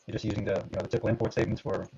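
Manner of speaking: choppy glitchy call audio; audio breaking up. Real, not acted. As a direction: voice cutting in and out online. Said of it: "your audio is breaking up a little bit".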